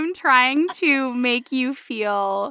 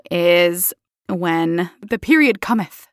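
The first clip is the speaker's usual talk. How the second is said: slow mock-Shakespearean proclamation; dramatic reading; 5 semitones lower, 3 dB louder, slower than usual. Introducing her period story, slow mock-dramatic reading. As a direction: intone it like old drama. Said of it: "it's dramatic reading".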